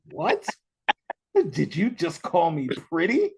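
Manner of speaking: a high squeaky "What?" then a disbelieving question; mock surprise. Retelling to his guest his shocked reply to a stranger. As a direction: play it amazed at being called pretty. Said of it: "I was like".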